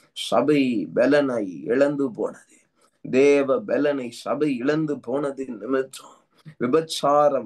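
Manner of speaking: intense tongues-filled prayer, rhythmic and urgent; fervent prayer. Acted. Pastor leading congregation in prayer, fervent. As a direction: pray over the church with rising fervour.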